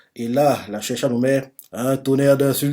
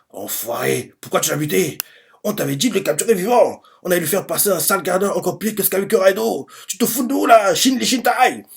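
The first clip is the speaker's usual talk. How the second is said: rapid rant climbing high in pitch; acted outrage, building to a high yell; angry henchmen; 6 semitones higher than usual. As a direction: start contained, then rush up into high-pitched indignation. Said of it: "énervés envers Shin".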